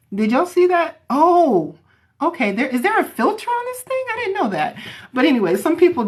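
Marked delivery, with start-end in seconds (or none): 0.1-4.8 high, loud startled reaction; real surprise. Real, not acted. Streamer noticing a face filter mid-demo, surprised high voice. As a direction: exclaim high at an unexpected sight.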